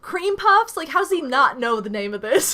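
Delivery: high, loud, laughing disbelief; incredulous laughter. Real, not acted. Reacting to a forgotten cream puffs name, laughing in disbelief. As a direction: laugh through your baffled protest.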